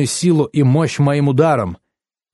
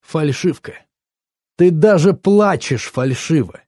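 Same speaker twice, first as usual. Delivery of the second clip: higher, accusing burst; snapping after holding it in; exasperated outburst; 5 semitones higher than usual. A narrator's reading. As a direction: lose patience and accuse. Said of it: "не выдержал я".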